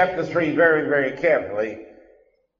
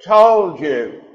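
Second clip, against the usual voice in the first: loud, higher demanding Who; God's booming question; 5 semitones higher, 7 dB louder, much slower than usual. Retold or imitated. God to hiding Adam, booming question. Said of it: "He said".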